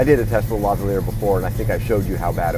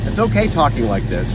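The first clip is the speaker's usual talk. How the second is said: raised, higher voice over engine noise; talking louder; 6 semitones higher than usual. Shown as a demonstration. Audio test in his car, speaking up over the engine. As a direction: push the voice up to carry. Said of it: "I'm kind of talking loudly".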